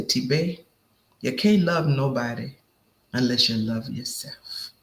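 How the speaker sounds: lightly voiced Cajun Creole grandfather; imitated Cajun Creole lilt, lightly done; Cajun Creole accent. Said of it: "I love the accent".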